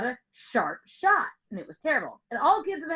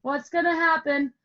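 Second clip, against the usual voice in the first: 1 worried hand; 5 semitones higher, 5 dB louder than usual. Acted. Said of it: "He was like".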